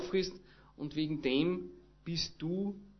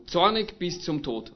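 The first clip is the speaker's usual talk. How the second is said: mock shout; 4 dB louder than usual. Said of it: "er schreit Gott quasi entgegen".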